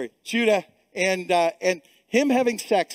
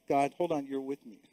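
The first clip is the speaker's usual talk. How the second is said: imitating a whisper; 5 semitones lower, 8 dB quieter than usual. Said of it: "I've had to whisper that".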